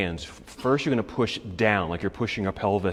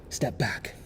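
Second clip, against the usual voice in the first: whispered cue; 7 dB quieter than usual. Real, not acted. Breathless cue during a hard pose.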